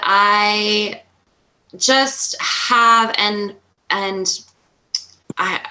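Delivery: halting, repeating words between long pauses; stuttering. Real, not acted. Retreat co-host explaining what she brings, stuttering. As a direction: stumble and restart, searching for the words. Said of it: "I'm, like, stuttering here".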